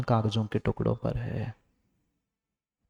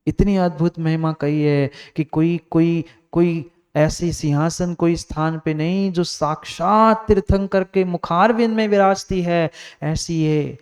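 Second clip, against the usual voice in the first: higher, ringing sermon praise; exalting preaching; 5 semitones higher, 5 dB louder than usual. Acted. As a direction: build in fervour as you extol the scripture. Extols the scripture with rising force. (ऊँचे स्वर में महिमा का जोशीला बखान)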